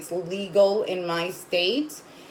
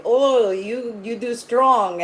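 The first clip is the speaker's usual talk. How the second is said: lightly voiced store clerk, a bit higher; 4 semitones higher, 3 dB louder, slower than usual. Counter guy remarking to a customer, lightly imitated. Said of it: "maybe like an Italian".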